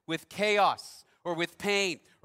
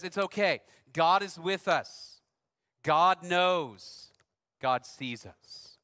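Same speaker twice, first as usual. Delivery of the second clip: reassuring; slower than usual. Retold or imitated. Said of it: "she's holding her".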